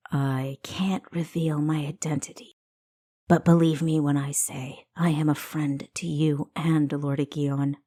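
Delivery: guard your name but plead sincerely; secretive stranger. Acted. Stranger hides her identity.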